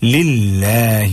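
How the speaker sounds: "للہ" drawn out slowly with a thin long aa; correct recitation. Shown as a demonstration. Teacher correcting the recitation for learners, drawn-out correct reading. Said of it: "نہیں".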